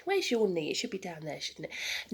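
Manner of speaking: ordinary talk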